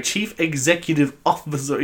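smug, self-assured reading; confidently naming the title correctly; mock confident. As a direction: say it like you know you've got it right. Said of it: "I was so confident being like".

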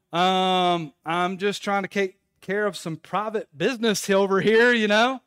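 loud, awkward stalling; awkward reply. Retold or imitated. Embarrassed man answers the stall neighbor, loud and awkward. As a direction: drag out the um, answer uneasily and loudly.

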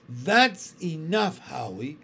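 slow firm motherly warning. Acted. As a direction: settle it like a mother would. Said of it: "the way mothers sometimes speak".

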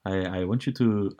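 put-on tentative Spanish accent, stammered start; Rafael Nadal. Friend starts a tennis-player impression, hesitant Spanish accent. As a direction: feel your way into a Spanish accent. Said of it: "I'm just thinking of Rafael Nadal here".

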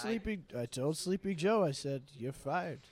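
high put-on presidential voice; Donald Trump. President scolding his rival over gas prices, impersonated. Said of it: "President Donald Trump".

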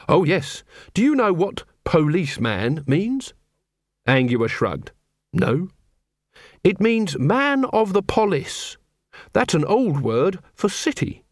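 earnest, proud young copper, lightly voiced; a lightly voiced keen young man; Carrot. A narrator's reading.

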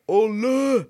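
high, loud joyful yell of a winner; excited shout. Retold or imitated. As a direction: shout it out as your number is called. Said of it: "Jeg, jeg skriker".

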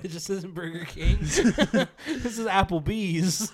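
drawn out through laughter; laughing slow quote. Retold or imitated. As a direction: stretch it out while laughing.

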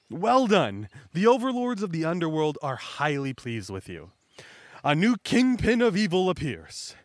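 a touch of grand proclamation; lightly voiced villain boss. Buggy congratulating the old man, mildly grand villain voice. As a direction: proclaim it like a pleased overlord.

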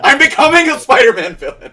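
high, loud words through laughter; laughing. Real, not acted. Friend repeats his own joke to the co-host, laughing hard. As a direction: crack up while saying it.

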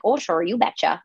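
lightly put-on Minnesota accent; a hint of folksy Minnesota. Shown as a demonstration. Comic repeating a phrase to find her Minnesota accent. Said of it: "for Minnesota".

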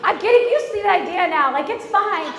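high, loud pleading protest; loud backtracking. Retold or imitated. Wife now wants to keep furniture, loud protesting backpedal. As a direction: protest at full voice, hammed up.

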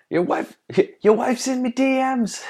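high laughing Irish brogue; Irish accent. Retold or imitated. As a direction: play a cocky Irish fighter, laughing. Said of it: "See if Conor McGregor will star".

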